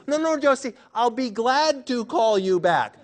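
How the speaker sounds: playful crowd correcting Josie; mock group correction. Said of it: "we're all gonna say".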